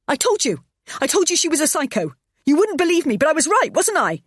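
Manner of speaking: high, loud hysterical shouting. Acted. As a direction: hurl it at him. Wife shouting in a row.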